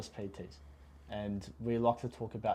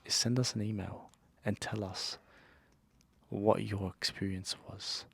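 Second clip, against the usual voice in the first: mock ASMR voice. Asking listeners to send an email, mock ASMR. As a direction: draw it out close to the mic, pretend ASMR. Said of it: "Stop talking like that".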